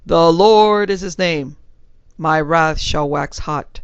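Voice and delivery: loud, slow preacher's bellow from the pulpit; a preacher bellowing scripture at his congregation; bellowed sermon. Acted. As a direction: thunder the scripture out slowly. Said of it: "when he bellowed".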